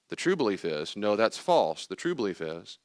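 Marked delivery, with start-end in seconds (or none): 1.0-1.9 "No, that's false" said firmly with a falling end; emphatic. Shown as a demonstration. Speaker repeating the rejection of false belief, emphatic. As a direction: punch the word "false". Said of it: "emphatically say the true belief".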